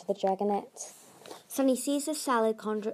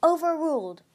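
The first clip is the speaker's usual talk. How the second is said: curt, higher and louder; dismissive; 7 semitones higher, 5 dB louder than usual. A narrator's reading. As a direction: overrule her bluntly. Glory dismisses Tsunami.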